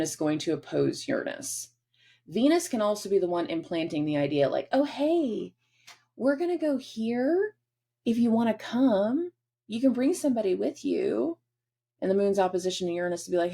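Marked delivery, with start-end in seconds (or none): 4.7-11.4 playful invite. Acted. Venus voiced inviting the moon.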